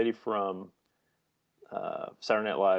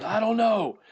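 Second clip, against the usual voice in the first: high, loud, eager quote; deadpan character voice; 13 semitones higher, 5 dB louder than usual. Retold or imitated. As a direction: say it with odd delight. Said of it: "And she says".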